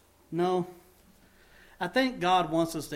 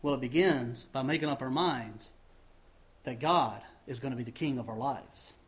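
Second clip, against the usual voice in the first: ordinary delivery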